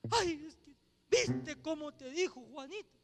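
put-on plaintive little lament; mock whining. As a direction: lightly mimic a wounded complainer egging on tears. Mimics whiny tattling to tempt crying.

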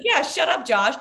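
high, loud mock voice for the dog; dog's voice. Giving the barking dog a voice, high and loud. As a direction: voice the barking dog telling Josh off. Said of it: "The dog is like".

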